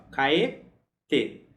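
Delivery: "kaete" with a held stop before "te"; marked pause. Shown as a demonstration. Teacher stresses the pause in "kaete" so students remember. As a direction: mark the pause clearly in "kaete". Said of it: "marcando bem a posição dessa pausa".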